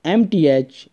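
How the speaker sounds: Pakistani English teacher accent. Real, not acted. Teacher opening a topology lesson.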